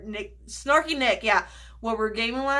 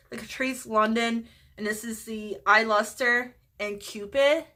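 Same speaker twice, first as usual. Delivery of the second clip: usual speaking voice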